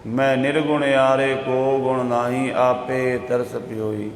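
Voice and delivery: slow, drawn-out devotional verse; scripture recitation. Acted. Preacher reciting the Guru's closing words to the congregation, slow devotional recitation. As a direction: recite slowly, pausing between phrases.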